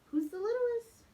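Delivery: high, loud eager question; excited. Acted. Child eagerly shouting the answer at the Seder. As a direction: blurt it out with excitement.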